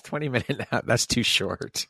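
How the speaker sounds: amused scoff at a short nap; laughing. Real, not acted. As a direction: giggle through the words. Laughs through repeating the words.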